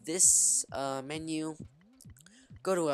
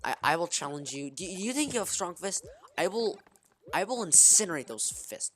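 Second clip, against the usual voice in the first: higher, playful mock threat; mock challenge; 4 semitones higher, 3 dB louder than usual. Gamer challenging an enemy's fists, mock menace. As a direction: challenge the foe in a put-on battle voice.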